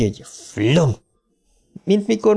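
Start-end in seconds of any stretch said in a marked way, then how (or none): 0.2-0.9 fuel-ignition whoosh sound; imitated whoosh. Narrator imitates collapsing burning wall, whooshing sound. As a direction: voice a sudden "flum" of catching fire. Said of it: "Ilyen hangja volt neki".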